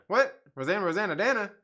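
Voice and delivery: baffled high disbelief; surprised. Real, not acted. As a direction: echo the names in confusion. Baffled repeat of names.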